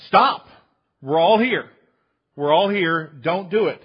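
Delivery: loud urgent shout to stop; yelled warning. Retold or imitated. Apostles shouting from the jail cell to the jailer, loud alarm. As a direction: call out to stop him in alarm. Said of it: "Paul and Silas yell out".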